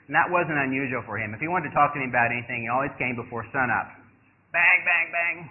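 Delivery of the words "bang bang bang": three short, higher-pitched bangs; imitated door banging. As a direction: punch out mock knocks on a door.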